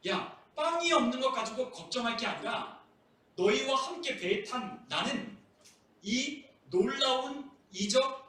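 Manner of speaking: lightly acted, insistent reproach; emphatic reproof. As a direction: press each claim home in an earnest mock rebuke. Preacher acts Jesus reproving the disciples.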